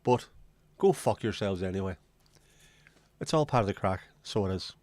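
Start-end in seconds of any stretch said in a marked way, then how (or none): 3.2-4.7 light put-on Irish lilt; a hint of a bad Irish accent; mock Irish accent. Host jokingly slipping into an Irish accent for the audience, light mock Irish. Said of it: "when I talk with an Irish accent".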